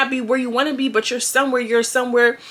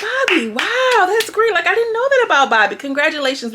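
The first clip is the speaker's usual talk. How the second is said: sarcastic awe; 9 semitones higher, 4 dB louder than usual. Retold or imitated. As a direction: lay the fake admiration on thick. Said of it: "And I'm like".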